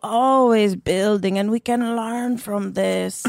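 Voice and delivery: calm therapist voice with a European lilt; Esther Perel impression. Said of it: "She's like".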